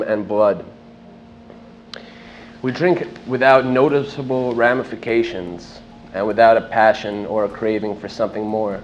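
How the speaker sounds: measured recitation to an audience, phrase by phrase; poetry-reading delivery, each phrase set apart; literary reading aloud. Acted. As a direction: declaim it as spoken verse, with deliberate pauses between lines. Reads own work to audience.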